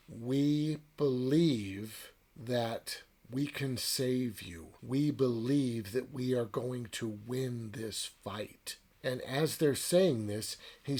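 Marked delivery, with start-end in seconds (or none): 0.1-8.8 slow, measured, lightly voiced spider; a calm, drawn-out promise from the spiders; slow spider reassurance.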